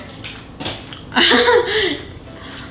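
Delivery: bright laugh. Real, not acted. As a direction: burst out laughing. Laughing after tasting.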